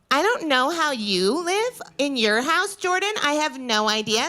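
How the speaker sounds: a hint of a prim, judgmental sister lecturing her sibling; mild mock-prissy sister scolding about the bread bag; impression of my sister. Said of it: "I'm gonna do an impression of her".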